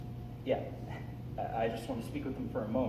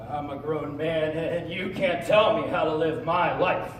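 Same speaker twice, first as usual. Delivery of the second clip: slow, rising indignation, building louder; firm protest; 7 dB louder than usual. Acted. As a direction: stand up to mother, word by word. Acted quarrel with mother.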